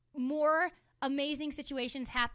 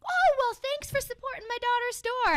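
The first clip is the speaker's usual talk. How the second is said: high, loud cheerful dad; higher, louder folksy dad; proud dad; 11 semitones higher, 8 dB louder than usual. Retold or imitated. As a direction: voice a friendly proud father. Dad voiced in story.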